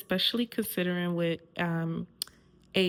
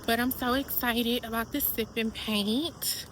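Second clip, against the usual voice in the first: breathless from walking; out of breath. Real, not acted. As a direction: talk while panting a little. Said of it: "Whew, I'm out of breath".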